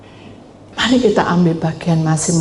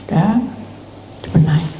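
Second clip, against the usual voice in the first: ordinary talk, nothing marked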